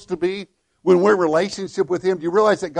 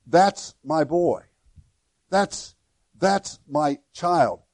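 slow, tender proud father; tender voice of God; slower than usual. Acted. Preacher voicing God as a proud father, slow and tender. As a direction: say it like a father beaming at his child.

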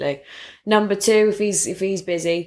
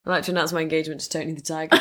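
laughing announcement; 3 semitones lower, 4 dB quieter, much faster than usual. Acted. Mock engagement announcement.

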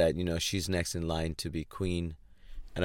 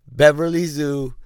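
Beverly Zhu said loud, higher and slow; pointed emphasis; 7 semitones higher, 10 dB louder than usual. Acted. Ranting about the skater's old name, loud slow Beverly Zhu. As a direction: lean hard on Beverly Zhu, drawn out.

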